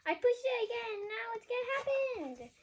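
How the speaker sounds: laughing, high and loud; giggly mischief. Real, not acted. Reader laughing while pushing the button again. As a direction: giggle through the confession.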